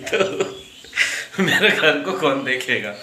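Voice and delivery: slow, laughing through the question; mock plea broken by laughter. Real, not acted. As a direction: joke through chuckles. Joking about being left alone.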